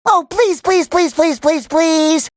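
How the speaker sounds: high, rapid-fire pleading; eager begging. Acted. Pupil begs Missus Puff to do it again, eager pleading. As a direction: plead in a quick repeating string.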